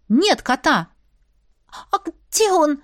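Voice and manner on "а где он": a touch husky, worried; slightly hoarse voice. Acted. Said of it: "немного севшим голосом".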